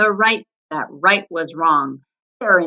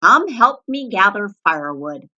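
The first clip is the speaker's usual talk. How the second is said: grudging varmint; 7 dB louder than usual. A narrator's reading. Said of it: "So he said".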